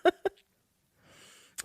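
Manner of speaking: high, loud mock cry for help through laughter; laughing imitation of someone begging for help; laughing mock plea. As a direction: imitate a panicked plea while cracking up. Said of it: "I'm laughing".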